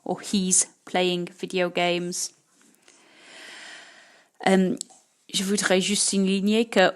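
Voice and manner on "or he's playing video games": he's playing video games, slow and clear; slow model. Shown as a demonstration. Teacher modelling the contraction slowly. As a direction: read it slowly for the class. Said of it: "mais he is playing".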